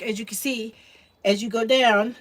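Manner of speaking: slightly winded voice; out of breath. Real, not acted. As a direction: talk while a bit out of breath. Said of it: "I don't know why I'm out of breath".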